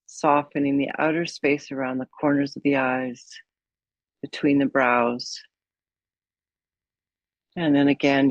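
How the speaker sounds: calm guided meditation with long pauses. Acted. Yoga teacher guiding a class to follow the breath, meditative. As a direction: settle them gently into mindfulness, phrase by phrase.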